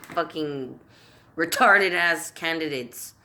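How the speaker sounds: real mounting fury at the candidates; furious tirade. Real, not acted. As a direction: spit out each insult as the anger builds. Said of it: "I'm getting too angry".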